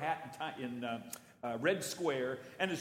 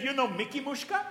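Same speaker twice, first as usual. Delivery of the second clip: higher, louder, laughing through it; teasing laugh; 8 semitones higher, 4 dB louder than usual. Retold or imitated. Guide teases the visitor, laughing. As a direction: tease him with a giggle.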